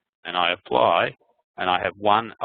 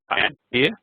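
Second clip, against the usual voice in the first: higher and louder, calling out; 7 semitones higher, 6 dB louder than usual. Real, not acted. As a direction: call out to be heard on the call. Calling out over a bad line.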